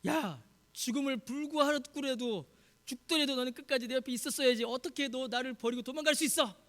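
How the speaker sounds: acted indignant rebuke; mildly angry, incredulous reproach; reproachful. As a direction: scold a friend who deserted you. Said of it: "그렇게 예수님께서 베드로를 책망하셨습니까".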